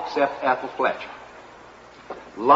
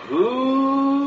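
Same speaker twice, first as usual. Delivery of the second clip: excited whoop; 8 semitones higher than usual. Acted. Excited storyteller exclamation.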